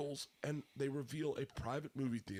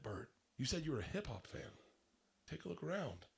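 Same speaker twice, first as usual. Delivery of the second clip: soft, confiding reveal; private, confidential; 6 dB quieter than usual. Retold or imitated. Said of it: "like, real private, personal space".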